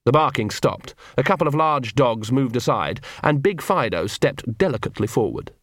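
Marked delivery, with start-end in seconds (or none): none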